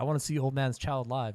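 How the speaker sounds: normal talking voice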